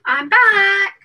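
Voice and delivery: loud and high, announcing return; called out. Real, not acted. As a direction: call it out cheerfully. Returning to stream, calls out.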